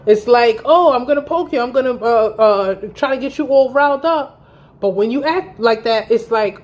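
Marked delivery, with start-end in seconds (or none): 0.6-4.4 mocking taunt. Mocking boyfriend's provoking attitude.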